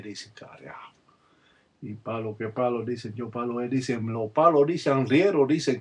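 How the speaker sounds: rhythmic litany of sayings in broken Congo Spanish; lightly voiced old palero litany; ritual recitation. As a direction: chant the dicen lines like a spell, steady beat.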